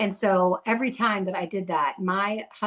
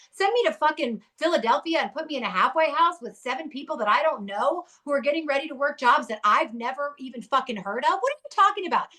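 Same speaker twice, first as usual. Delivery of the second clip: heated, rising rant ending high; real lingering rage; 5 semitones higher than usual. Real, not acted. Recalling being sent to a halfway house, real rage. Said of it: "You can still hear it in my voice".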